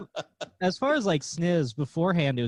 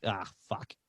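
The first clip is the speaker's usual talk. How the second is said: deflated groan; 7 semitones lower, 8 dB quieter than usual. Retold or imitated. Deflated inner reaction.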